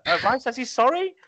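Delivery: high, hammed-up timid question; sheepish messenger. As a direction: squeak it out like an awkward go-between. Mimics delivering the apology sheepishly.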